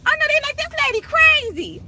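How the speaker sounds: high, loud laughing retelling. Retold or imitated. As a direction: cackle through the quote.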